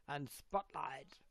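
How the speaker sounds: slow, stretched mock show announcement; mock presenter swooping up through a drawn-out line; host impression. Showing off the imitated host voice.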